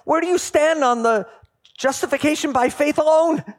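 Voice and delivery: officious supervisor angel. Acted. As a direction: grill him like a pompous official. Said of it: "the supervisor angel comes and goes".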